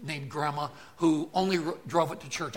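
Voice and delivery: a hint of a car dealer selling you a lemon; used car salesman. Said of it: "Used car salesman will tell you".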